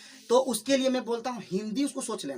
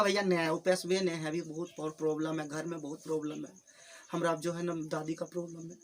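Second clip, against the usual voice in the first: soft, sulky plea of no money, much softer; mock whining student; 4 semitones lower, 6 dB quieter than usual. Student pleading poverty to his teacher, mock tearful and soft. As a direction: whine like a student dodging tuition fees. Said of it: "रो रो के सुना देगा".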